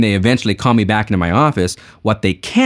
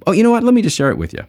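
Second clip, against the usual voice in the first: mock sudden remembering; 11 semitones higher, faster than usual. Salesman to praying customers, faking a sudden idea. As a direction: pitch jumps up high on oh, feigned surprise.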